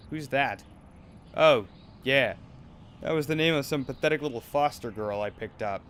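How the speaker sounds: put-on harsh controlling manager scolding a girl; cold, bullying talent manager; abusive manager. Manager humiliates Ruby.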